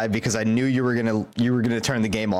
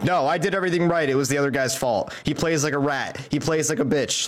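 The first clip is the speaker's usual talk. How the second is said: mock defensive gamer; 3 semitones higher than usual. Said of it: "players who are like".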